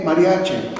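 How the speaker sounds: "mariache" ending in a clear E; final vowel of "mariache" is E. Shown as a demonstration. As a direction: say "mariache" with E at the end, not I. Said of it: "con E".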